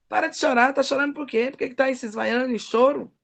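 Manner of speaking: mild retold telling-off; bronca imitada. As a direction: question the crying with blunt impatience. (bronca leve, imitando repreensão)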